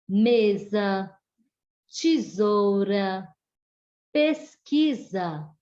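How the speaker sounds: "mesa", "tesoura", "pesquisa" with S voiced as Z; slow examples, a clear Z sound in "mesa", "tesoura", "pesquisa"; S com som de Z. Shown as a demonstration. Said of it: "terá som de Z". ("mesa", "tesoura", "pesquisa" com S soando como Z, devagar)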